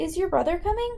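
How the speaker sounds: high, fast speech rising at the end.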